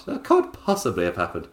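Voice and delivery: a touch of posh, stunned; lightly voiced posh lady, baffled; posh disbelief. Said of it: "I made it so incredibly posh".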